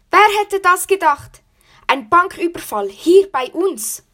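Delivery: high, loud astonished villager; shocked disbelief. Acted. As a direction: gasp it out in disbelief. Villagers shocked at bank robbery.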